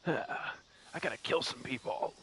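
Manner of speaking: slow, half-whispered Snake impression. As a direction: breathe it out slowly as Solid Snake.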